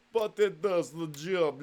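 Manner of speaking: slow, lightly put-on Russian accent; mock Russian accent. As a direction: drawl "but it does the job" like a Russian comrade. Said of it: "stop the Russian voice".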